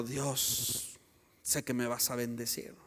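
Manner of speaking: low, soft acted prayer; quiet, low mock-pious aside; hushed prayer. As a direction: murmur it privately to God. Acts a hopeful private prayer.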